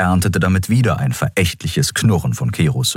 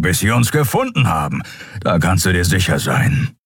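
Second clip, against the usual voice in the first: a character voice a little higher than the narration, pressing hard; stern warning; 6 semitones higher than usual. Acted. A stern crewmate warns Endriel about pursuers, firm. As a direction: warn her firmly that the hunters won't stop.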